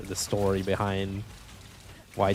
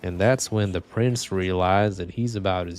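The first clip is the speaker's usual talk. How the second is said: imitating the narrator; slower than usual. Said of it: "the narrator's like".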